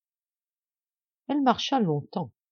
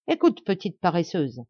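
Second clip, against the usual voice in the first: a touch of haughty scorn; arrogant, harsh tone. Acted. Stepmother orders the girl around with haughty scorn. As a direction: talk down to her coldly. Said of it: "d'un ton rogue".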